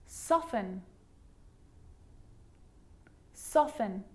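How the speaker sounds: "Soften" as SOFF-en, no T; careful, separate models of "Soften"; silent T. Shown as a demonstration. Teacher showing the sneaky T, careful repeated model. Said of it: "it can also be silent".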